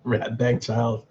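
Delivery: put-on "Rat bag child" said slowly, each word drawn out; savouring a phrase. Shown as a demonstration. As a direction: roll "Rat bag child" out slowly like a new favourite insult. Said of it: "I'm gonna use that".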